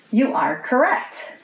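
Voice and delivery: ordinary delivery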